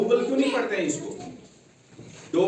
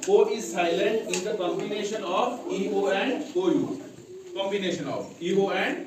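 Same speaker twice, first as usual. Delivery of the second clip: slow dictation; much slower than usual. Shown as a demonstration. Teacher slowly dictating a rule to memorise. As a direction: dictate slowly, then hit O U. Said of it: "सिर्फ rule को हमने याद रखना है".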